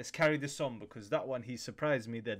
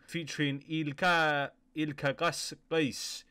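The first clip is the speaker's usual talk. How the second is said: unsure name; slower than usual. Real, not acted. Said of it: "I think that's how you say his name".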